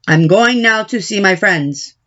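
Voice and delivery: a hint of a bossy baker father giving orders. Father the baker instructs daughter.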